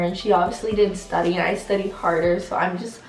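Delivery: bully boasting about her grade to a friend, smug; mock bragging bully. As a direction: gloat like a stuck-up classmate. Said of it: "This is how my bully would act".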